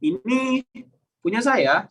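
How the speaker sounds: high, held "ini", a pause, then "punya saya" falling; questioning high "ini", then "punya saya"; different intonation. Shown as a demonstration. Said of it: "tiga kata ini dengan intonasi yang berbeda".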